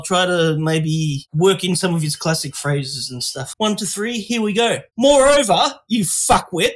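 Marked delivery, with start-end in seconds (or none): 5.0-6.7 lightly voiced sweary TV chef; half-hearted British chef impression, raised pitch; Gordon Ramsay. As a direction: read scripture with a touch of chef's temper. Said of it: "do a Gordon Ramsay accent".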